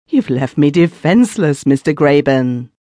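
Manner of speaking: a frightened man's odd pleading; queer-sounding voice. Acted. Chiddock pleading with the keeper, odd frightened voice. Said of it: "he says in a queer-sounding voice".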